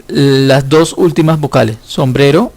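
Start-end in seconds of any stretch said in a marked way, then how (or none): 1.9-2.5 whispered. Shown as a demonstration. Teacher pointing out vowels.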